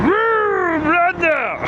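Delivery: very high excited whooping; hyped whoop. Real, not acted. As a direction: whoop it up with hype. Hyped intro before install.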